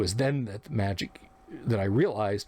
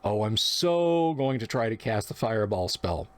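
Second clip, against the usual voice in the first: eager player, lightly voiced, with a stretched "so"; mildly acted excitement. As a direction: relish the plan with a touch of excitement. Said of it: "made the magic user excited".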